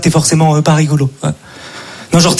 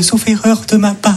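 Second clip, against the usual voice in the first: mock polite office tone. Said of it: "collègues aussi qui m'envoient".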